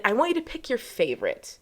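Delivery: ordinary delivery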